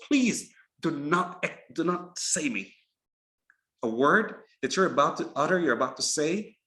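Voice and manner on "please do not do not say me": drawn-out, imploring "please"; mock screamed plea. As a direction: plead slowly as the word itself, without shouting. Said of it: "a word screams to the person".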